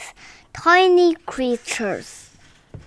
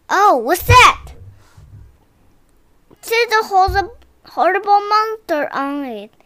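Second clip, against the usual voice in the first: put-on excited child voice; 6 semitones higher, 3 dB louder than usual. Child voice in retold story.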